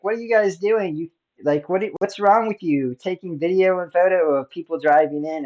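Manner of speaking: mock an upset official telling people off; upset, retold. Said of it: "she got all upset at us".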